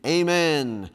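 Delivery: mildly shouted answer; congregational shout. Acted. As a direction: respond like a whole congregation. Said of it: "You talk about a shouting time".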